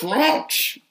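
French said the French way, FRENSH with a rising end; a mock French accent on French. Friend mocks saying French in a French accent. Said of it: "you said French with a French accent".

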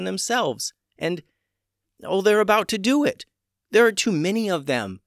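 high, pressing mermaid warrior; desperate to get back to battle; urgent mermaid voice. A narrator's reading.

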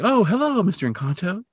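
high, delighted mock hello; imitated eager landlady; happy greeting. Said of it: "She's so happy to see him".

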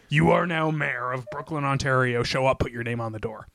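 disguised voice. Retold or imitated. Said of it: "this disguised voice calls you".

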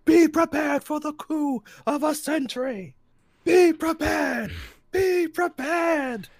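high, slow, drawn-out villain speech; sing-song Scar, stretch every word; Scar speech impression. Friend mimics Scar's speech in the remake, high and slow. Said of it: "I hate that it was a speech".

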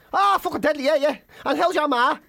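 high, chummy impression; overfamiliar stranger. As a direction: imitate a stranger chatting like an old friend.

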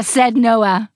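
plain reading voice

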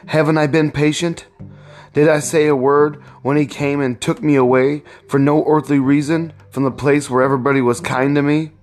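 a hint of an aggrieved husband; indignant protest. George answering Eliza, mildly indignant.

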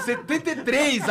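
laughing, calling the bid. Retold or imitated. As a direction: blurt the bid while laughing. Climax of bidding.

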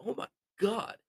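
high, stunned disbelief; amazed. Real, not acted. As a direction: gasp it out in amazement. Amazed at forty-seven points.

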